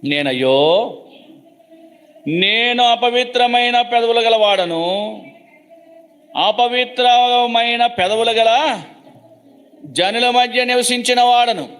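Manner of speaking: a lightly voiced lamenting Isaiah; Isaiah's lament. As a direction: cry out as the stricken prophet. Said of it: "యెషయా గ్రంథము ఆరో అధ్యాయము".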